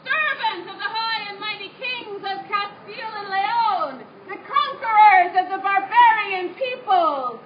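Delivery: loud, pompous herald reading decree; formal proclamation. Acted. Reads Spanish conquest proclamation.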